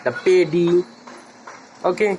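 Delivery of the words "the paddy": "the paddy" with the said as "da"; "the" as দা before consonant. Shown as a demonstration. Teacher giving a consonant example, "the paddy" with "da". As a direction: open vowel in "the" before "paddy". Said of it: "সেই ক্ষেত্রে আমরা বলবো দা".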